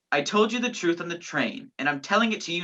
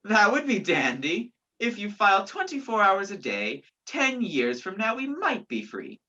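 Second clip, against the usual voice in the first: sarcastic; 3 semitones higher than usual. Acted. Man mocks woman's nail file plan, sarcastic. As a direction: stretch out the years sarcastically.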